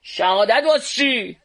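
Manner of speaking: lightly puzzled question; a hint of astonishment; mild surprise. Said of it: "با تعجب پرسید".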